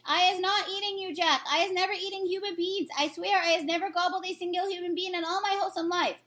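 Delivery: high, frantic protest; pleading. Acted. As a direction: swear it desperately. Giant pleading innocence.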